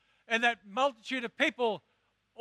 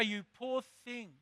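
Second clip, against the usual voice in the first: softer, slow pitying murmur; soft mock pity; 6 dB quieter, slower than usual. Jesus pointedly not saying it, soft mock pity. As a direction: hush it like pity. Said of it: "Jesus didn't say".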